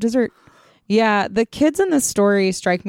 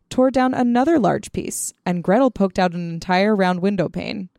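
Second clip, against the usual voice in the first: usual speaking voice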